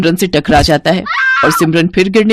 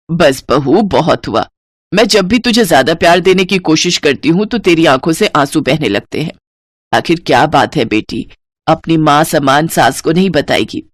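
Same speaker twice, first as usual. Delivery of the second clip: comforting mother-in-law; 2 semitones lower than usual. Acted. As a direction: hush a frightened child.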